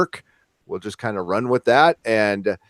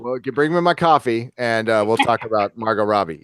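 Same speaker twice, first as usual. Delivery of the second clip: creepy Groucho Marx; 4 semitones lower than usual. Pretend. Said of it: "That's my creepy Groucho Marx imp-, impression".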